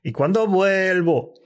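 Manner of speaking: slowly drawn "¿Y cuándo vuelvo?"; slow wrong take. Retold or imitated. Host imitating Auron's slow delivery. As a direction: mimic the dragging version. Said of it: "Y tú haces".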